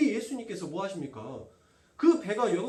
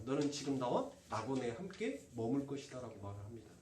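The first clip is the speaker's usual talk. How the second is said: hushed scripture retelling; 6 semitones lower, 8 dB quieter than usual. A narrator's reading.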